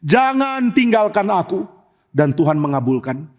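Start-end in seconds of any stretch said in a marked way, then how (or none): 0.1-1.7 slow, drawn-out prayer; acted earnest entreaty, pitch rising on the repeat; pleading. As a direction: implore God, stretching each word. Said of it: "Daud minta satu hal".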